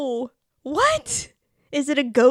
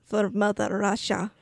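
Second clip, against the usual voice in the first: lower, mock Russian accent; 3 semitones lower than usual. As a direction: echo in a put-on Russian accent. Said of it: "do the Russian accent".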